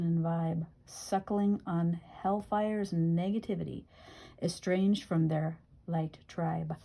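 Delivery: emphatic title, then measured verse; poem recitation. Acted. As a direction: recite the poem line by line, settling after a strong opening. Reads own poem aloud.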